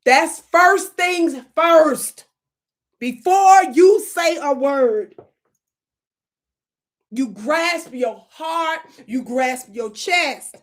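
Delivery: slow, heavy, drawn-out words; milk every word slowly; slow dramatic. Shown as a demonstration. Comedian demonstrating slow dramatic opening to the audience. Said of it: "You don't start telling the story".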